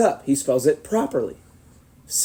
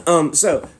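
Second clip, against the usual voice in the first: normal talking voice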